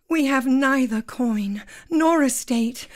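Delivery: slow, romantic heroine declamation; melodramatic Claire. Acted. Claire tells Jamie love is enough, melodramatic. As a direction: declare devotion grandly and slowly. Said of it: "you're Claire".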